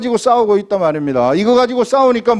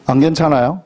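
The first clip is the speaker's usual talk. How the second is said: ordinary talk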